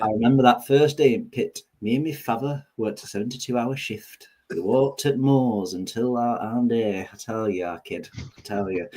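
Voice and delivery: hammed-up old northern miner reminiscing; northern accent. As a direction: play a Yorkshire miner telling hard-luck tales. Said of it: "The Mancunian came through then".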